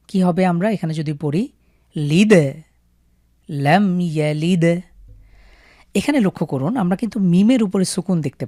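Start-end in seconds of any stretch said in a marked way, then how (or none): 2.0-4.6 লিদ with দ jolted, মিম not; bounced দ. Shown as a demonstration. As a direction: bounce only the দ. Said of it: "দালের উপরে সুকুন থাকার কারণে আমরা এখানে ধাক্কা দিয়ে পড়ব".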